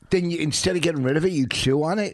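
high fast loud disgusted scold. Real, not acted.

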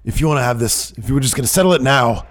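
loud, high, strained stern voice; Regal impression. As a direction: boom like an angry general manager. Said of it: "Regal comes out and says".

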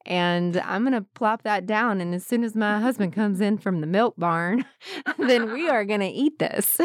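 lightly played Southern homemaker accent; a touch of hardworking Southern country wife; Southern women. Imitating women she grew up around, mild Southern accent. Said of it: "this thing where they're like".

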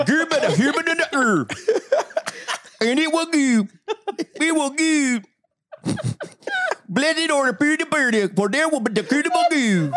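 mock scripture reading. Reading fake scripture to the family, hammed-up solemn. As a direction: intone nonsense like a Bible verse, chuckling. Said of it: "a Bible version of this".

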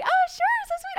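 very high, sugary naive voice; mock-gushing. Traveller mocking how readily she agreed, gushing. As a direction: parody your own gullible sweetness, way up high.

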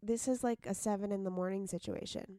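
sick raspy vocal fry. Real, not acted. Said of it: "The imminent vocal fry from Scout".

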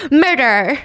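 hissed single word at the mirror; mock-sinister line to herself; a child playing killer, lightly menacing; menacing mock murder. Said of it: "point her finger at herself and say".

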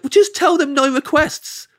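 high, drawn-out exasperated advice; imitated friend's slow, high insistence. Exasperated friend giving obvious advice, retold.

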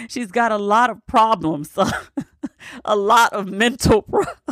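can't get through the line without laughing; laughing through a quote. Real, not acted. Vlogger reading Trump's insult about Pelosi, laughing. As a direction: quote broken up by real giggles.

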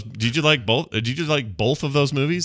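both said as "bolth"; both with an extra L, used casually; added L in both. Shown as a demonstration. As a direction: slip an L into both. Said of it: "That's totally a sentence I would say".

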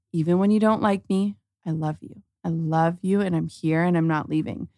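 soft, gentle, dropping near a hush; tender reassurance. Retold or imitated. Mom telling her daughter at bedtime she stays, soft and tender. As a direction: reassure a struggling child, quiet and steady.

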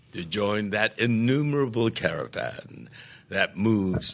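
slow, solemn recitation of verse; poem recital. Shown as a demonstration. Reciting Thanatopsis to show how to be quiet, solemn. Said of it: "That's the way to be quiet".

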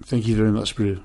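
playful South African thank-you; thanks in a put-on South African accent. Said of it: "solid South African accent".

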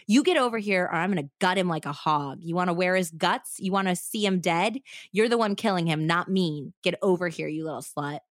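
lightly voiced snarling threat from a knife-wielding woman; menacing captor. Knife-wielding woman threatens the girl, lightly voiced menace.

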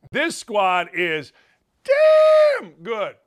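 slow build, then DAMN good shouted high and loud. Real, not acted. Host loudly praising the team to viewers, drawn then shouted.

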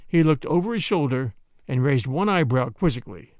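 plain reading voice

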